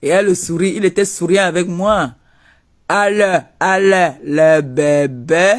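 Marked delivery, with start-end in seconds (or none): 2.9-5.5 mock baby talk.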